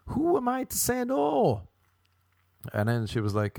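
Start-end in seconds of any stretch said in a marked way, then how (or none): 0.1-1.7 high, drawn-out put-on voice; slow falsetto singsong; high-pitched coy reply. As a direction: stretch it out high and sustained. Acted high-pitched aside to self.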